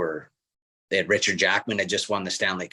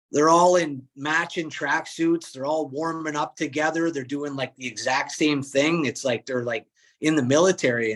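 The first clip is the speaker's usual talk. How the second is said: amazed; 6 semitones higher than usual. Retold or imitated. Retelling teammate's amazed report.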